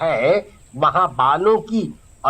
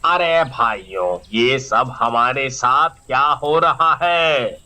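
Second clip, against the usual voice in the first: much lower voice of a worried villager; गाँव का आदमी; 6 semitones lower than usual. Acted. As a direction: call out to the brothers, low and worried. Villager addresses the crowd. (बहुत नीची आवाज़ में परेशान गाँव वाला)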